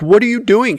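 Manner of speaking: acted-out startled husband; mock alarm. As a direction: ask in startled disbelief. Retold alarmed question to wife.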